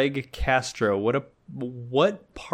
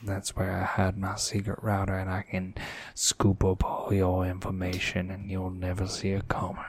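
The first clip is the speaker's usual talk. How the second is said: Southern gentleman; 5 semitones lower than usual. Acted. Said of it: "this Southern gentleman".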